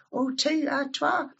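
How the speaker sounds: correcting "two" to Scots "twa"; catching the Scots word. Shown as a demonstration. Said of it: "them wee words that you think".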